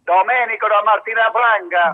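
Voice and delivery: over the phone line. Real, not acted. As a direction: caller heard down a telephone. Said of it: "sento la tua voce al telefono".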